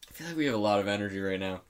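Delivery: wired and fast; too much caffeine. Real, not acted. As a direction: rattle it off over-caffeinated. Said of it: "I had two cups of coffee today".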